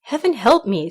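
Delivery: loud storybook exclamation; startled cry. A narrator's reading. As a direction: cry out in mild dismay. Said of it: "cried he".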